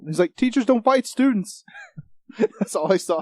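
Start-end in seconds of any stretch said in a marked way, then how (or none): 0.4-1.6 high, loud imitated movie line; hammed-up trailer quote; mock protest. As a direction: plead it in a raised voice. Quotes frightened teacher from trailer.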